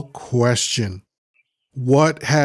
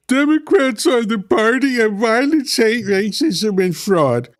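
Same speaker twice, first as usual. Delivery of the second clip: mock reading; 9 semitones higher than usual. Mocking a chat comment's claim.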